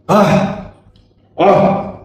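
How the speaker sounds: imitated gasps of dismay; mom's gasp. Mom reacting to her son's question, imitated gasps. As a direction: gasp twice, as if recalling something horrible. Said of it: "Y mamá hace esto".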